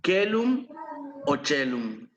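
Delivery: Celum said with a K, then chelum with a CH; two Latin readings. Shown as a demonstration. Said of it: "cualquiera de estas pronunciaciones".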